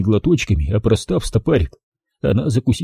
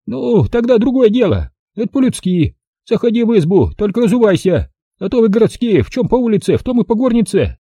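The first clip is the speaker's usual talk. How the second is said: put-on higher, brisk old-woman voice; old village granny; 11 semitones higher than usual. Old granny greeting the city visitor, high old-woman voice. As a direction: voice the feisty village grandmother.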